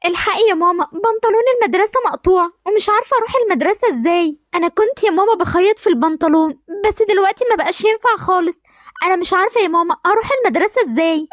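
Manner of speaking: put-on upset girl. Girl pleads about torn trousers.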